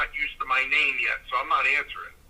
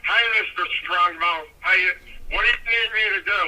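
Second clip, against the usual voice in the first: eager rookie greeting his hero; a hint of a nervous teenager; eighteen-year-old voice; 3 semitones higher than usual. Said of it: "my eighteen-year-old voice".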